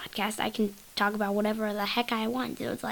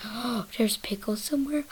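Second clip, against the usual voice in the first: hushed discovery; 4 dB quieter than usual. Pretend. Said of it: "it kinda trips me out".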